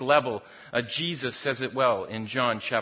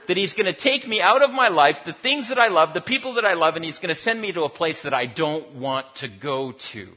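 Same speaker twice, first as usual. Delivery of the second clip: 1 loud rising lament; 3 semitones higher, 6 dB louder than usual. Acted. Preacher voicing fearful exaggeration.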